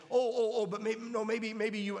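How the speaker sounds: high, loud flustered backpedal; woman apologizing to Carol, flustered and high; flustered politeness. Retold or imitated. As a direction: fumble the offer, embarrassed and eager. She flusters, offering Carol the place.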